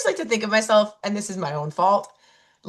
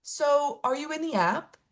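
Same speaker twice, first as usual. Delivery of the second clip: calm; 6 semitones higher, 5 dB quieter, slower than usual. Retold or imitated. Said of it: "She calmly goes".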